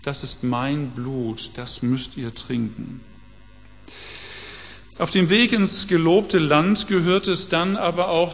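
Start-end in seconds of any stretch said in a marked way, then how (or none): 0.0-3.0 langsam und leiser, feierlich wie beim Abendmahl; solemn Jesus words. Acted. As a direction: eine Spur von Jesu ruhiger Stimme beim Brotbrechen. (feierlich langsam, leise gesprochen)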